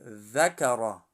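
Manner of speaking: ذکر ending on a thick, heavy ر. Shown as a demonstration. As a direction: round out the ر in ذکر. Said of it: "در سیوم حرف را هست".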